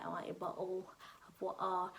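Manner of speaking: imitated British accent; a light attempt at a stereotypical British accent. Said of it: "not everybody is".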